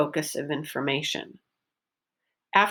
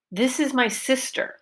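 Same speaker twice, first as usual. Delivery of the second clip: higher pitch on "sister", then falling; focus stress; 5 semitones higher than usual. Shown as a demonstration. Teacher models a practice sentence, focus stress on "sister". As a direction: make "sister" the focus word with a clear vowel. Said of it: "pronounce it with the pitch change".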